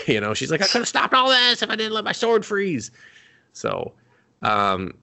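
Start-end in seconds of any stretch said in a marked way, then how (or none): 0.6-2.9 very high, strained lament; mock anguished whine. Captured heroine blaming her frozen sword, mock anguished whine. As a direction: wail it in exaggerated frustration.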